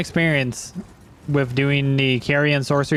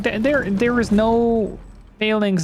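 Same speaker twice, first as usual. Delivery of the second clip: insisting; 6 semitones higher, slower than usual. Retold or imitated. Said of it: "I was like".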